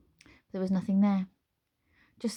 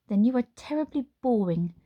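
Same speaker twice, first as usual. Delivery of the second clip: witch voice; 5 semitones higher, 5 dB louder than usual. Acted. Witch taunting.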